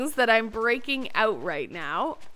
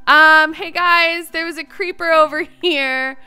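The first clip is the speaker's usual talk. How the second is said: louder, still rattled; shaken announcement; 4 semitones higher, 12 dB louder than usual. Real, not acted. Telling viewers a creeper appeared, louder and shaken. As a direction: tell them loudly, still shaken.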